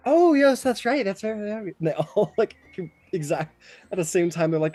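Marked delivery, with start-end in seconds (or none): 0.1-1.7 fawning nymphs. Retold or imitated. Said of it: "the nymphs are like".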